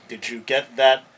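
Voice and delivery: loud but cut short, word left out; censored version of the quote. Retold or imitated. Lawyer mocking the judge's sanitized quote, pointed and clipped. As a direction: skip the slur with a pointed stop. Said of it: "he doesn't say".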